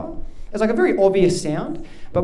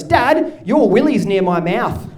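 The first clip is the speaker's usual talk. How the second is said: put-on five-year-old son at max volume; 3 semitones higher, 3 dB louder, slower than usual. Five-year-old son telling dad in the shower, imitated as loud child. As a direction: imitate a kid with no volume control. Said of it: "speaks at max volume".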